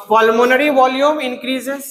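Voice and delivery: slow, spaced words; slow dictation. Shown as a demonstration. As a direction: dictate so they can write it. (धीरे-धीरे लिखवाना)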